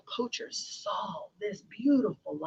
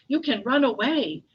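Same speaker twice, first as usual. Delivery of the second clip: higher, louder, lilting urging; excited mouse; 4 semitones higher, 6 dB louder than usual. Acted. Mouse to the freed lion, mildly excited. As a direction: urge it brightly in a storybook voice.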